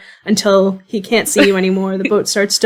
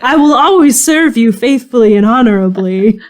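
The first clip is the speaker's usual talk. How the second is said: higher, louder solemn vow; earnest boy knight; 4 semitones higher, 4 dB louder than usual. Acted. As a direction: pledge loyalty as a thrilled kid playing knight. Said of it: "sincerely believes now that he has just been knighted".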